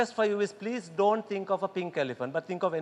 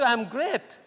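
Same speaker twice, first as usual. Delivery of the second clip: higher, brighter "I'm great."; upbeat answer; 4 semitones higher, 4 dB louder than usual. Shown as a demonstration. Showing the right answer, upbeat "I'm great.". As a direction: lift "great" with energy. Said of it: "How are you?".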